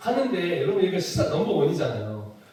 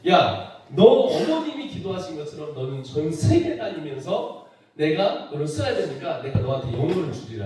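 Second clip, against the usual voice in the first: voice of the Lord; 4 semitones lower than usual. Retold or imitated. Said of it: "주님이 뭐라냐면".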